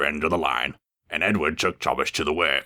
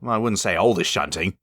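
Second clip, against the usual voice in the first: sniffy; 3 semitones higher than usual. Acted. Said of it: "sniffed Eunice".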